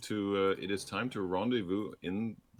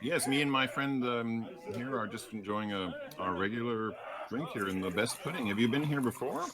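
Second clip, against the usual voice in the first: tavern regular voice; 4 semitones higher than usual. Acted.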